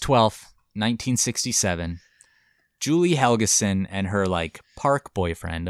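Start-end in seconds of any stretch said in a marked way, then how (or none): 4.8-5.7 slow, in air quotes. Real, not acted. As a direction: say it like it's in quotes. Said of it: "I'm doing quotation marks".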